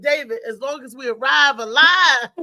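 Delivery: mock warning. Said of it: "I said".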